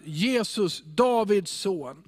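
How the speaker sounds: mild, drawn-out mock call; understated cry to someone passing. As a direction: call the name out with restraint. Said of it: "Så att här ropar han ut".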